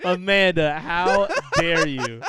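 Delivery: loud, slow, laughing indignation; mock outrage. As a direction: scold her through laughter. Mock outrage at friend's joke.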